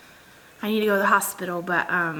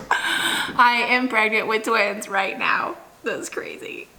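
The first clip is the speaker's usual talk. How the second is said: whispered; slower than usual. Real, not acted. Confiding a secret aside.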